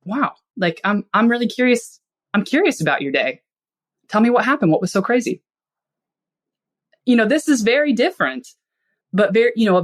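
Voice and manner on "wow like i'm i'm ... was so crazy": higher, warmly curious, leaning on curious; interested listener. Shown as a demonstration. Spouse home after a crazy day, curiously invited. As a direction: draw out your spouse's day with real interest. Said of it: "You can say".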